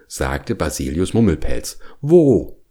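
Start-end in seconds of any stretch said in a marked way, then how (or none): 2.0-2.6 high, loud, eager burst; eager question. A narrator's reading. Bear hearing of a honey nest, eagerly asking. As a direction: pounce on the question, greedy for honey.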